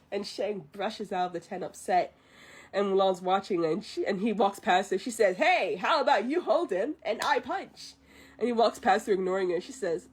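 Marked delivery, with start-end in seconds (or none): 5.4-7.9 lightly voiced Mulan, a bit higher; a hint of a playful Mulan. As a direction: play it as a cheeky young woman offering to help. Mulan voiced in retold movie.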